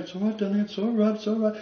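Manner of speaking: put-on softly soothing a child; wife comforting husband, hushed. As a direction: pat him with the voice. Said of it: "she was going".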